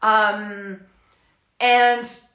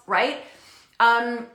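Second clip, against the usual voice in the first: ordinary talk, nothing marked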